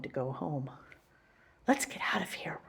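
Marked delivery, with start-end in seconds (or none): 1.7-2.6 soft unvoiced whisper. Girl whispering to her dog to leave, whispered. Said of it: "Helen whispered to Martha".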